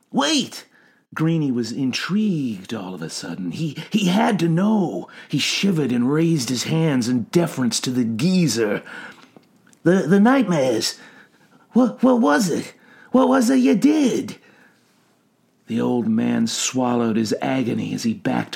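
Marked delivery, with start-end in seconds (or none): 0.1-0.7 high urgent call; sudden high-pitched plea; calling after. A narrator's reading. Greenie calls after fleeing man. 9.8-14.4 high, loud, stammering questions; insistent, intrigued, pitch climbing; urgent questioning. A narrator's reading. Greenie urgently has to know.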